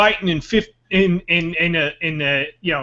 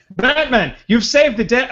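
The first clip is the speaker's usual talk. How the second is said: police commissioner; 3 semitones higher, 3 dB louder than usual. Pretend. Plays commissioner greeting Batman.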